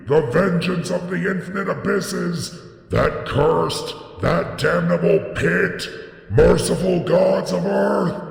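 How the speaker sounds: anguished shrieks of a doomed man; horrified cry. A narrator's reading. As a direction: scream in pure horror as you fall. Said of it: "a cry wherein reverberated the horror and anguish".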